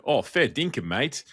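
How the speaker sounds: lightly imitated Australian computer voice; Australian accent. Computer chatting to its user, light Australian accent. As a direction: put on a touch of Australian accent. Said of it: "when a computer's going".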